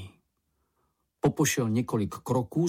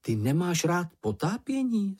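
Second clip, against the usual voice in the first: higher-pitched, wondering question; surprised question; 7 semitones higher than usual. A narrator's reading. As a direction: ask with mild astonishment, voice lifted. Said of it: "zeptal se Mumínek udiveně".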